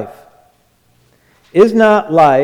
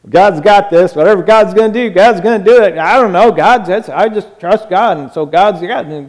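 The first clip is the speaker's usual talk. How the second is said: mocking autopilot person; 3 semitones higher, 4 dB louder than usual. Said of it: "those people on autopilot".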